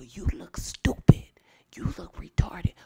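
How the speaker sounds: hammed-up schoolyard jab; mock taunt. Shown as a demonstration. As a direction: sneer it at the bully. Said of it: "you say".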